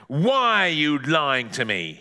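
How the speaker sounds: slow, lightly voiced nasal interrogator; drawn-out accusation; accusing neighbour. Neighbour advances on boy, slow mildly menacing demand. Parker accuses retreating Ben.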